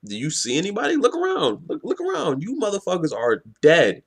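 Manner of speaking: taunting retold villain, rising high on the jeers; mocking. Villain mocks the captives over their missing hero, mocking. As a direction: jeer at them as you retell it. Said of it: "Trey Bowl laughs and he mocks them".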